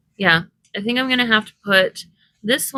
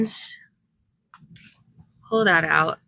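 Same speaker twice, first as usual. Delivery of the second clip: whisper; 3 semitones lower, much slower than usual. Real, not acted. Crafting, hushed aside.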